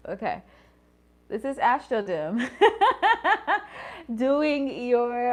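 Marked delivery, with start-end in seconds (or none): 1.3-2.5 laughing through her intro. Real, not acted. Restarting her intro to viewers, laughing. 2.5-4.1 high giggly laugh; high burst of laughter. Real, not acted. Cracking up at herself mid-intro, high laugh. Laughs at her own restart.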